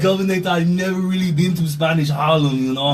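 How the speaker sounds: lightly put-on Austrian-accented governor; Arnold. Guest posing as the governor, mock Austrian accent. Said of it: "we got Arnold and Juanito on the outside".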